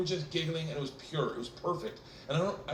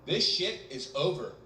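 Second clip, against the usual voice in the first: slow, rising scold, higher by the end; a lightly voiced angry chaperone; teacher scolding, climbing higher; stern teacher; 6 semitones higher, slower than usual. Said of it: "swings the door open with that, like, liberal arts confidence".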